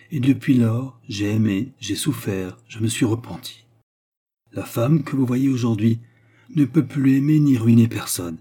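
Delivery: lightly voiced woman confessing firmly; repentant Baccarat. Baccarat confesses her past to the count, earnest.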